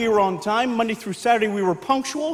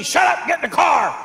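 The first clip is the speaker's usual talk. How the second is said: angry dad yelling; 4 semitones higher than usual. Retold or imitated. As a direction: bark at the kids to hurry. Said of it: "Here's how Dad would get us".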